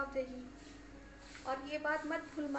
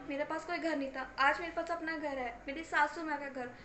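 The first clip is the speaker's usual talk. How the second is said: exasperated daughter. Acted. Daughter storms out after family quarrel.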